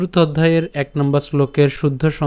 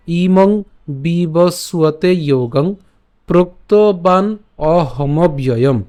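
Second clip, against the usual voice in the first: ইমং বিবস্বতে যোগং drawn out slowly; slow model recitation; much slower than usual. Shown as a demonstration. Teacher repeats the verse slowly for students to follow. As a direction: recite each word slowly and clearly. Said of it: "যদি প্রথম থেকে বলি".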